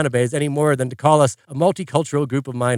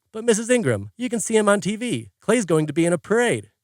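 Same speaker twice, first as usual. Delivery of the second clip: government official; 5 semitones higher than usual. Retold or imitated. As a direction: placate the worried mother. Government official voiced by narrator.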